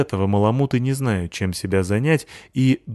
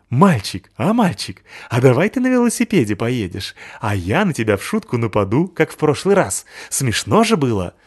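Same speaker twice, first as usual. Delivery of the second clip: higher, eager; wheedling dog; 4 semitones higher, 3 dB louder than usual. Acted. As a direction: beg the boy to play. Пёс уговаривает мальчика. (выпрашивающий щенок)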